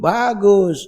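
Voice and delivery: high sarcastic "Bagus"; mock praise. Preacher mocking showy pious dress, high sarcastic praise. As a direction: sneer a mock compliment. Mocking fine clothes of hypocrites.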